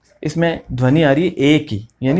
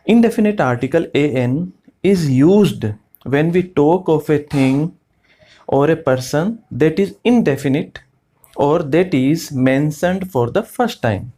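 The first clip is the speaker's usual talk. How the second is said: slow dictation reading; much slower than usual. Acted. Teacher dictating the grammar rule to the class, very slow. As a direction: rule read out very slowly, word by word. Reads the English rule slowly.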